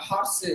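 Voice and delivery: "horse" with the R tapped before the s; Indian-English R. Shown as a demonstration. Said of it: "That is how we pronounce the letter R". ("horse" Tamil ர் ஒலியுடன்)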